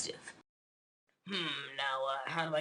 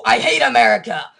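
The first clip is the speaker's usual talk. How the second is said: angry rant; 3 semitones higher, 6 dB louder than usual. Acted. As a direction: spit it out as a furious rant. Ranting villain in cartoon.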